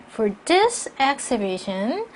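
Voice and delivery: slow phrase rising on "exhibition", then stop; break at comma. Shown as a demonstration. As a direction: hold off after "exhibition". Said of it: "쉼표니까 끊고요". ("exhibition" 뒤에서 끊어 읽기)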